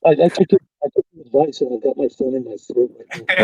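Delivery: glitchy robotic phone audio; muffled robot voice through a phone mic. Real, not acted. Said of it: "He's full robot again".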